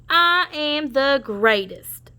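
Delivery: slow drawn-out boast; boastful shout. Acted. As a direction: proclaim it slowly, gloating. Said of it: "Wing shouted".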